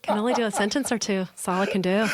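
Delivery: lightly put-on Irish lilt; imperfect stage Irish accent; amateur Irish accent. Shown as a demonstration. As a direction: attempt an Irish accent, a bit unsure. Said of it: "I'm not great at Irish".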